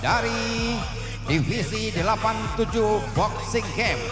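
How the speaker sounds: booming ringside MC intro; ring announcer. Acted. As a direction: announce it to the whole arena.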